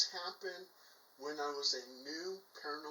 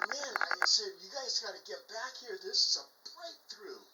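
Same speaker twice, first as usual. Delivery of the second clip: excited call back; 5 semitones higher than usual. Retold or imitated.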